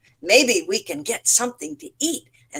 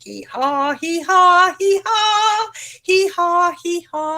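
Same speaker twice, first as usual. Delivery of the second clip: donkey braying; 8 semitones higher than usual. A narrator's reading. Storyteller braying as Donkey for the children. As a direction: bray like a donkey. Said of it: "Donkey went".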